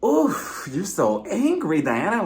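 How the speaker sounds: put-on cooing baby noises, drawn out; teasing baby-talk coo; mock baby voice. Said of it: "why are you making all these baby noises".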